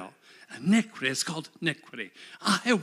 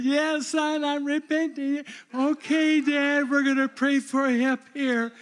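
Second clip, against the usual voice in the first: lively retold dialogue; 9 semitones higher, 5 dB louder than usual. Retold father-son exchange, raised voice.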